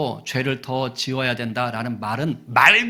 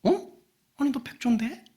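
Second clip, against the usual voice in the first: lightly acted higher questioning voice; puzzled swan; 9 semitones higher than usual. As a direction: correct the duckling in mock puzzlement. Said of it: "앞에 있는 백조가".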